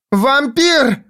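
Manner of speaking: very high cried-out Вампир; shouting. A narrator's reading. Jiz shouts at Foyle while spinning, very high. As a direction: scream it at him across the corridor. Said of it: "крикнула она".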